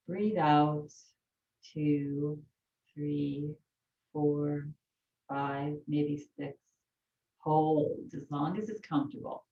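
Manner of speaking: calm, measured counting of breaths; soothing breath count; guided breathing count. Acted. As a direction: count the breaths slowly and evenly.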